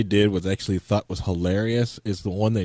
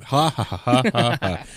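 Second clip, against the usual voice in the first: mock laugh; 4 semitones higher, 5 dB louder than usual. Fake laugh.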